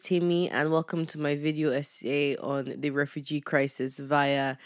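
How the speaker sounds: lightly voiced serious essay intro; mock video essay host. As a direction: pretend to open a video essay.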